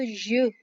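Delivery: y for double l. Shown as a demonstration. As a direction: say it as य, not ल. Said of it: "य करके ही बोलते हैं".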